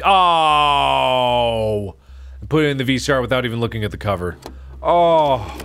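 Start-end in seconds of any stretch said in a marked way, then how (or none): 0.0-2.0 startled. Real, not acted. Startled by tape. 4.8-5.5 startled. Real, not acted. Startled by tape.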